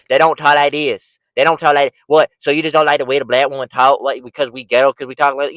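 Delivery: loud, mouthy ghetto-talk imitation; mock the way they talk, loud and insistent; put-on ghetto accent, pushed loud; ghetto-talk impression. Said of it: "These ghetto talking black women".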